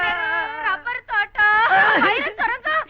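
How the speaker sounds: high, drawn-out marvelling; wide-eyed amazement. Acted. Woman learning of the riches, amazed. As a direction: list each item in growing wonder.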